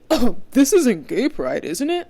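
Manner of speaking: slow, loud mocking question rising high; a sneering impression of the stranger; mocking imitation. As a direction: mimic his clueless tone with scorn. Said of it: "the attitude and the nerve to be like".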